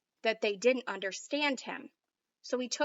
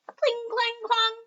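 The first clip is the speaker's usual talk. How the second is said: higher, louder clanging sound words; clashing swords; 11 semitones higher, 4 dB louder, slower than usual. Acted. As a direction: bang out each clang like swords striking.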